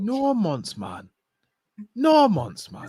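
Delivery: high, swooping exasperated fan voice; Saeed. Acted. Impersonating a football YouTuber on request, high wailing voice. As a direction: pitch it right up and wail in disbelief. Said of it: "Do Saeed for the culture".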